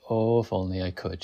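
mock despair. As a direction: sigh it like a melodrama heroine. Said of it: "filled with just the right amount of despair".

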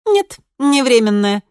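loud, slow eager promise; firm assurance. A narrator's reading. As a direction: promise it firmly. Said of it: "заверила Кристина".

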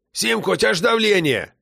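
put-on high protesting old man; objecting grandpa. A narrator's reading. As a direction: remind her sharply.

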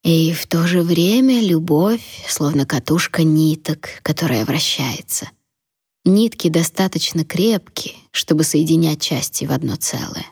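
put-on slow, hushed old grandmother; a dying woman's last lesson; frail old woman. Grandmother continues, fading.

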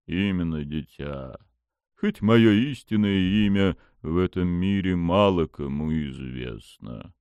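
low, slow, lordly deity; dark god voice. Acted. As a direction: speak down to a mortal.

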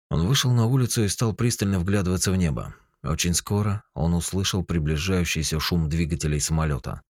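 ordinary delivery, nothing marked

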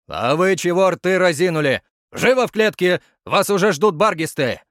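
loud, high barked command; barked order. A narrator's reading. Curator orders the gawking kids out, loud. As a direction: chase them back to the cages.

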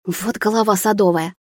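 usual speaking voice

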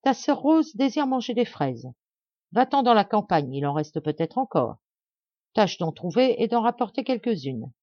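high, commanding voice; harsh, arrogant orders. Acted. Stepmother sends the girl into the snow, harsh and high. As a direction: bark the errand at her. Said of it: "d'un ton rogue".

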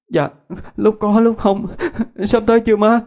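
put-on high, tired child asking; a weary kid asking if they're there yet. A narrator's reading. Child answering mother. (giọng trẻ con mệt mỏi hỏi má)

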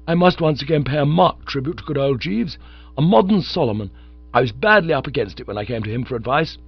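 lightly voiced, excited friend; Bingo, eager young chump. Bingo telling Bertie about his new hope, eager.

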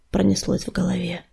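usual speaking voice

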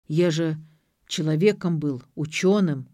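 «человеком был» spoken firmly and intelligibly; deliberate, distinct «Я же», then a pause; suddenly distinct. A narrator's reading. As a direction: say «учёным» clearly, every syllable separate. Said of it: "вдруг внятно сказал он".

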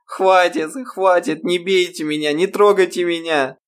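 высокий, громкий испуганный крик; умоляет, визжа от страха; визг в панике. A narrator's reading. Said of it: "Ирма завизжала". (девушка визжит, умоляя не бить её)

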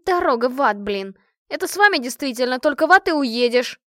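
loud indignant outburst; furious at her friends. A narrator's reading. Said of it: "Машка негодовала". (громко, с негодованием)

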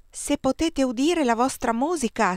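put-on boy pitches "udire" high and clear, falling after; ringing high voice. A narrator's reading. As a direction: ring it out as high as he can. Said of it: "squillò più alta che poteva".

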